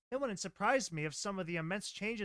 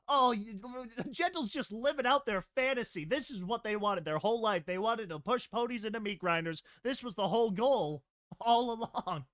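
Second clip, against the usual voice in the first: high, loud joking rant; excited rant; 4 semitones higher, 4 dB louder than usual. Real, not acted. Reader gleefully mocking the mad mare's plan, high and loud. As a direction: riff on it with glee.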